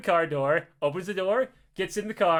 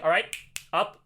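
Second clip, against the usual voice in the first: lightly voiced curt commands; stern, stoic guard; 2 semitones lower than usual. Guard orders Jerry off the plane, stern and stoic. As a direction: give short orders with pauses, a touch stern. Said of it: "he's stern, stoic".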